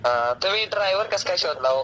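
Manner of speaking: ordinary talk, nothing marked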